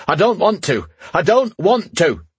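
high-pitched panicked-sounding yell; sudden outburst. A narrator's reading. Knight startling his queen with a sudden outburst. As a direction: voice jumps up high, drawing out the refusal. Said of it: "His voice rose suddenly".

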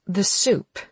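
gritted-teeth clipped reply; through gritted teeth. Acted. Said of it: "said through her teeth".

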